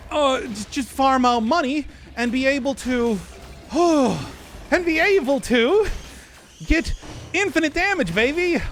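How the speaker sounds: put-on old-timey fast-talking announcer; lightly voiced 1930s radio host; 1930s cartoon voice. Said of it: "doing the nineteen thirties voice involuntarily".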